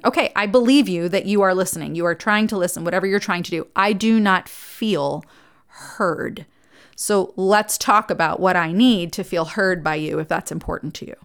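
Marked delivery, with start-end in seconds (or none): 3.8-11.2 slow calm modelling. Shown as a demonstration. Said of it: "modelling right phrasing".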